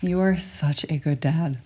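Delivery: real, tender sincerity; heartfelt affirmation. Real, not acted. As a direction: say it gently so it lands. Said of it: "I want it to land on your body".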